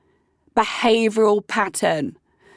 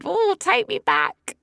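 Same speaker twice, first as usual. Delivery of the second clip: zombie voice; 8 semitones higher, slower than usual. Pretend. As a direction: drag it out like a zombie. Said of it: "my imagination is wonderful".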